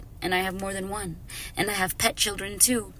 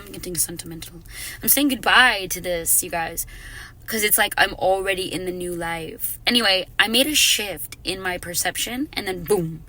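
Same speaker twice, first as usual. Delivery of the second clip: ordinary talk, nothing marked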